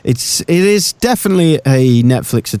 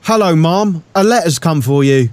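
lightly hammed-up soap actor, higher pitched; mock a stilted EastEnders delivery; EastEnders bad acting; 5 semitones higher than usual. Policewoman in the house delivers news, mock soap acting. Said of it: "Suddenly we go really EastEnders".

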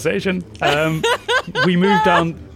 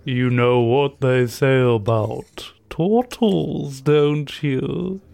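smooth pickup line; 2 semitones lower, much slower than usual. Acted. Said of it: "and he says".

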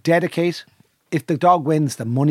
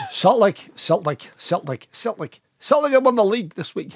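hammed-up Scottish go, lifting higher on the full line; attempted Scottish accent; 7 semitones higher than usual. Shown as a demonstration. Showing off accents to the speaker's co-hosts, attempted Scottish accent. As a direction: practise the word into a Scottish accent. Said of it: "You're very good at accents".

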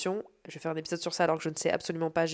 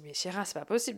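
softer, deflated self-talk; soft resigned inner voice; quiet to herself; 7 dB quieter, faster than usual. Retold or imitated. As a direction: murmur it to yourself after the outburst. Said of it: "Je me dis".

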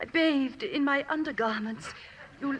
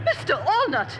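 louder, sudden alarmed call of his name; startled cry; 6 dB louder than usual. Acted. Rose, startled awake, cries out to Allnut in alarm. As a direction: call out in shock. Woken, finds Allnut nearby.

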